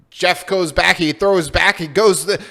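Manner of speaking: loud, high, rapid-fire sportscaster call; excited play-by-play. Retold or imitated. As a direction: call the play like a hyped TV announcer. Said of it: "You're like, you know".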